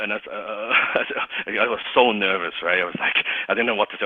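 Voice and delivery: usual speaking voice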